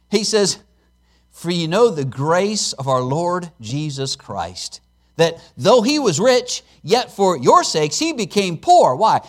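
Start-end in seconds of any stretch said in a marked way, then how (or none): 1.3-9.0 slow, measured reading of the verse; scripture reading. Acted. Preacher reading verse to congregation, solemn. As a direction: read the verse slowly and reverently.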